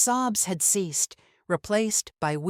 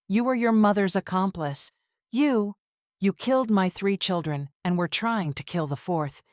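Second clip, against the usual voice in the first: wife screaming at the husband who poisoned her; screaming accusation; 2 semitones higher than usual. Acted. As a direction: hurl the betrayal at her husband. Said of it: "I screamed".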